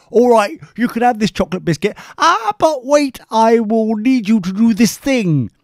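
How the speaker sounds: high, lightly voiced sly offer; imitating the committee's sly catch; mock bargaining. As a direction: hold out the prize, then hook the catch. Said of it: "And they go".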